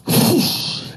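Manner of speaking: breathy whoosh of a sling being swung. Retold or imitated. Preacher acting out David's sling shot with a whoosh. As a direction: blow out air like a stone flying from a sling. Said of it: "And he goes like this".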